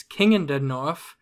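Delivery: put-on northern Westerosi accent. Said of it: "that one with the accent".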